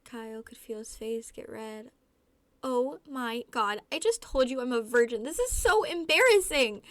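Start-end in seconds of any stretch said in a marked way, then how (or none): 2.6-6.8 rising panic. A narrator's reading. Guest blurts a secret to Kyle, rising panic. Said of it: "your voice rising in panic".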